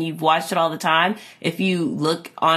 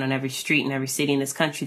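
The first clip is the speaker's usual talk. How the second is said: fast; 4 semitones lower, 5 dB quieter, much faster than usual. Shown as a demonstration. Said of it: "Taxi Driver had that ... tagline".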